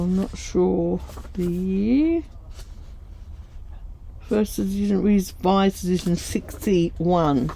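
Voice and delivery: slight lisp from new dentures; lisping through false teeth. Real, not acted. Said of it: "Sorry for my lisping".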